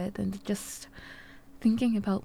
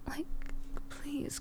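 whispering; 2 semitones higher, 4 dB quieter than usual. Acted. Hushed pleading.

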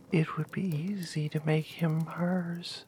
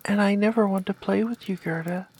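fast, louder cry; 2 semitones higher, 5 dB louder, faster than usual. Acted. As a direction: blurt it out loud. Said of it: "But Kai cried out".

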